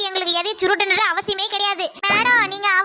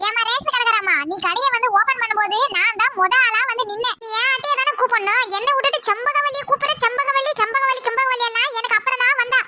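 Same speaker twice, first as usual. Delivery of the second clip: higher, aggrieved neighbour voice; grumbling woman in line; 3 semitones higher than usual. Acted. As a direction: complain about losing your spot. Same woman protests to shopkeeper.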